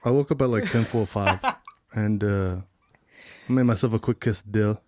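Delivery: impression of a friend. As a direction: imitate a friend, pitched low. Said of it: "doing an impression of you".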